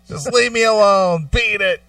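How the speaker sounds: put-on old-time movie voice. Mock fifties voice.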